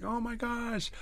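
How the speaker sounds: high-pitched mock astonishment, drawn out; imitated freaking out. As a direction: act out her stunned, squealed surprise. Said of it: "he's freaking out, she's freaking out".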